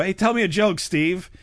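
high, lightly mocked heckling request; pestering stranger. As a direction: imitate people badgering a retired comedian. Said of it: "people still go".

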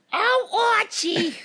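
very high, screechy sitcom housewife impression; high-pitched caricature of a TV wife; Edith Bunker. Shown as a demonstration. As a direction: call out to the husband in a piercing high voice. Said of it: "Edith, Edith Bunker".

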